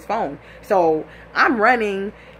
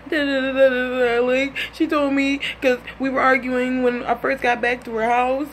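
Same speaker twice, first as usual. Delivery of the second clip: tearful excuse; 5 semitones higher than usual. Retold or imitated. Man tearfully explaining himself, imitated.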